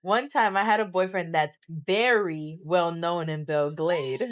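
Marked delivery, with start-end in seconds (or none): 1.7-3.3 "very" stretched out with heavy emphasis; stress on VERY. Real, not acted. Storyteller hinting at a locally famous boyfriend, stress on "very". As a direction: lean hard on "very", as if in capitals. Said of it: "Very capitalized".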